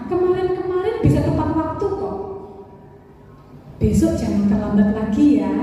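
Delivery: lightly voiced friendly teacher. Shown as a demonstration. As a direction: reassure the late student like a friend. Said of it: "Itu teman".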